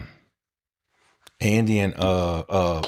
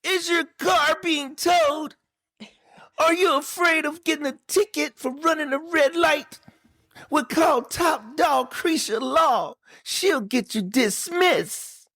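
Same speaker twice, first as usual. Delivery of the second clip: TV commercial announcer; 7 semitones higher than usual. Pretend. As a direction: pitch it like a cheesy lawyer ad. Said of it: "Y'all like that commercial?".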